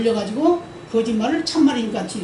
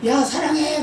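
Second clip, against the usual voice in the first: higher sweet call; lightly shouted love; mock shout of love; 5 semitones higher, slower than usual. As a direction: call it out like a child. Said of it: "다시 올라가서".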